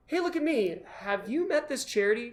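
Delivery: "Hey" lifted high and eager; the charity-minded version, bright and eager; bright pitch-up. Shown as a demonstration. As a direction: pitch up excitedly to promote the charity. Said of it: "but instead doing".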